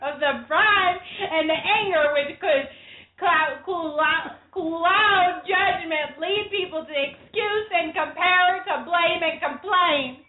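overwrought Southern speechifying; drawn-out Southern delivery, hammed up; Southern Bill Clinton impression. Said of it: "You sounded like somebody from Steel Magnolias".

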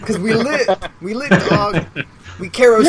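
high, loud gangster bravado. Acted. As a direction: hype it up like a rapper. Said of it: "naming flammable objects in a gangster voice".

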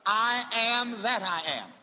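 slow, high, grand divine proclamation; solemn voice of God. Retold or imitated. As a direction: proclaim like God at the burning bush. God's words at burning bush.

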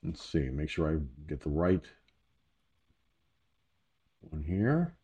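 distant, off-mic voice; speaking away from the microphone; far from mic. Real, not acted. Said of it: "I sound a little distant from the microphone".

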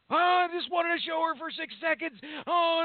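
high, whiny mock tantrum; whiny kid meltdown. Dad imitating his son's bedtime meltdown, high and whiny. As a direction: whine like a kid sent to bed. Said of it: "he flips his fucking shit".

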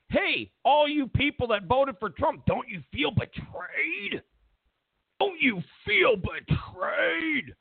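rising, drawn-out pleading mock cry; mock wail of don't you feel betrayed; mock whiny media plea. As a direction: whine it like a fake-concerned reporter. Mocking media whine to voters.

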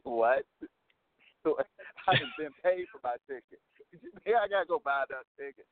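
retold incredulous protest through chuckles; laughing disbelief. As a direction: protest the absurd demand while laughing. Retold disbelief at paying twice.

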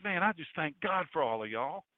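lightly voiced southern accent; a hint of southern in a quoted thanks. A disciple thanking his people, mild southern accent. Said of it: "They had southern accents there".

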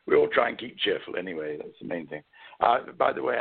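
hoarse, croaky throat. Real, not acted. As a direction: talk through a croaky voice. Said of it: "I must apologize for a rather croaky voice".

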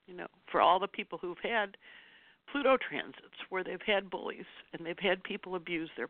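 choked up with feeling; crying. Real, not acted. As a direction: keep talking while holding back real tears. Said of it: "which I'm doing now".

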